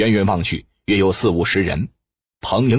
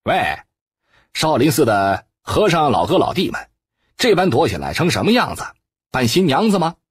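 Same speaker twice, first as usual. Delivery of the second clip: taunting call, higher and rushed; mock shout; 5 semitones higher, faster than usual. Zhou Dian taunts the monks hiding inside the temple, with a raised, rushed shout. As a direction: jeer at hidden monks, fast and raised. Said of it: "周颠喝道".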